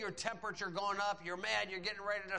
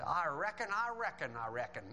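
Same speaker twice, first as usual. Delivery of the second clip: Curly. Retold or imitated. Preacher quoting a comedian for laughs, playful impression. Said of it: "I think it was Curly said".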